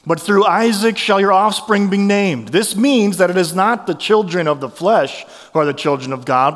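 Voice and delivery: measured public reading of the passage; scripture reading. Acted. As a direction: read Romans to the congregation, steady.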